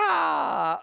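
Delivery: high cowboy whoop; yeehaw. Acted. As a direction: holler it like a cowboy. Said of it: "give me a big yeehaw".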